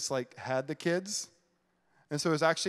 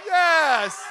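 full-throated joyful yell, much higher and louder; big excited shout; 14 semitones higher, 8 dB louder than usual. Real, not acted. Pastor yelling with the crowd in joy, shouting. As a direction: yell it like Elf. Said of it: "we're gonna yell Jesus".

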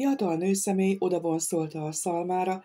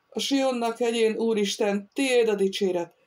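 higher-pitched sermon opening; preaching; 4 semitones higher than usual. A narrator's reading. Feyerbaum takes up his sermon again, preaching. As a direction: proclaim it as a preacher would. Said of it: "kezdte újra prédikációját".

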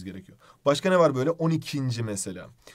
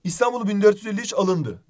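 raised, louder example sentence; example read aloud; 6 semitones higher, 3 dB louder than usual. Shown as a demonstration. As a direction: read the sample sentence out clearly. (örnek cümleyi vurgulayarak okuma)

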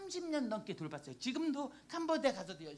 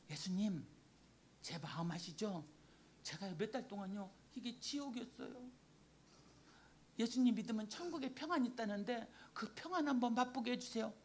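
soft, understated pleading to Jesus; retold tearful prayer; 4 dB quieter than usual. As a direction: recall a hurting prayer, quietly imploring. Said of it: "이러고 울었을 때". (울며 간구하던 기도를 나직이 재연)

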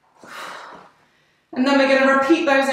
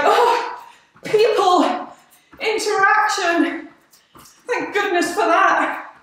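lightly voiced, higher and gushing; mock overexcited; excited puppy; 5 semitones higher, slower than usual. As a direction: gush about people like an eager puppy. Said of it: "I'm like an excited puppy".

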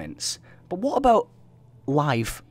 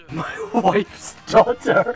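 silly voice; 9 semitones higher, 7 dB louder, much slower than usual. Retold or imitated. Meme quote in voice.

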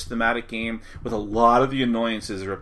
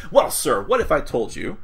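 smooth pitchman sales pitch; salesman voice; 3 semitones higher than usual. Pretend. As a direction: lay on the salesman charm. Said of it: "I sound like my salesman voice".

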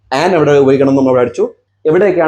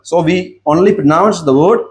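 very slow, word by word; slow dictation; 2 semitones higher, much slower than usual. Shown as a demonstration. Teacher dictates to students, very slowly. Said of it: "teacher slow dictation".

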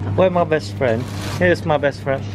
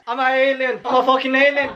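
a light put-on alien voice, higher; 5 semitones higher, faster than usual. To his vlog viewers, a lightly voiced alien. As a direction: announce you're an alien with a mild goofy voice. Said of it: "I made a voice that I came from the universe".

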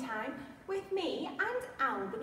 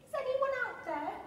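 much higher little bear calling out; cub crying out; 12 semitones higher, 4 dB louder than usual. Acted. Lonely bear cub calls out across the snow, high and plaintive. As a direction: call into the empty snow like a small lost cub. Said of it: "the little cub cried".

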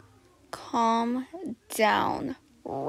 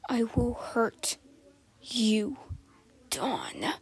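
whispered threat; much slower than usual. Acted.

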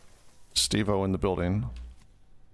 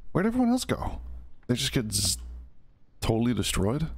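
surprised; 3 semitones higher than usual. Real, not acted. Caster sees team wiped out.

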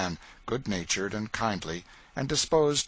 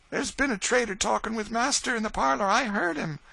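pleading Eliza; 14 semitones higher, 5 dB louder than usual. Acted. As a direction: plead with her mistress on the edge of tears. Eliza reports the trader.

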